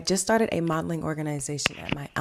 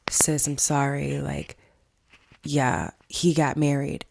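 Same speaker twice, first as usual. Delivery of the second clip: whispered apology; slower than usual. Retold or imitated. Bro whispers to his sister that her fiance married. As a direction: breathe it out gently like bad news. Bro breaks the bad news.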